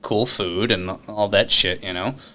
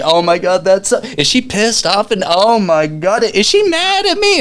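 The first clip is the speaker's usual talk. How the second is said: loud, very high, anxious squeal; panicked worry; 12 semitones higher, 7 dB louder, slower than usual. Retold or imitated. Laughing at the table, worried his date is mad. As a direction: fret that she's angry. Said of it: "It's like".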